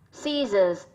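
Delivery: scissors stressed on its first syllable. Shown as a demonstration. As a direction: lean on the opening syllable of scissors. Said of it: "trọng âm rơi vào âm tiết thứ nhất". (nhấn âm tiết đầu của scissors)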